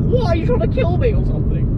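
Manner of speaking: high, loud retold protest; mock outraged yell. Retelling near miss with bus.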